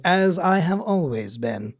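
slow put-on reply; drawn-out mock-solemn voice; joke catchphrase quote. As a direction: imitate a proud, measured answer. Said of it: "he's like".

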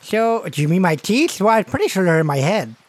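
put-on puzzled kid with missing front teeth. Boy asked where they come from, gap-toothed kid. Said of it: "he's missing his two front teeth".

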